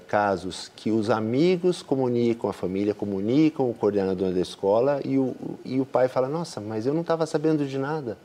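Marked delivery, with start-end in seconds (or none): 6.3-8.2 surprised. Retold or imitated. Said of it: "Se surpreende".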